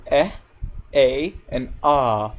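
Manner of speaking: "eh", "a", "ah" as three separate vowels; vowel sound demo. Shown as a demonstration. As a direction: slowly sound out "eh", "a", "ah". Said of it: "A can make several sounds".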